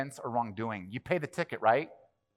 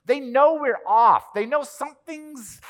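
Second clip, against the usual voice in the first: they "know" drawn out high and slow; stress on know; 11 semitones higher, 8 dB louder, slower than usual. Real, not acted. Preacher pressing the point to the congregation, slow emphatic stress. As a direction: lean hard on "know".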